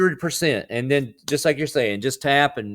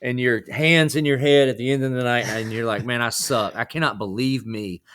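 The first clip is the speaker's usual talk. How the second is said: mild sermon delivery in a conversational voice; lightly voiced preacher. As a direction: preach it gently, like a pastor encouraging a guest. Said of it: "Can I play preacher real quick?".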